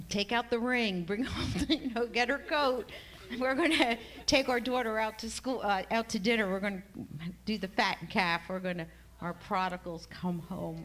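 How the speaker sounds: husband rallying the family to celebrate the prodigal's return, excited and loud. Retold or imitated. Husband announcing the daughter's homecoming, excited and loud. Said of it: "he's like".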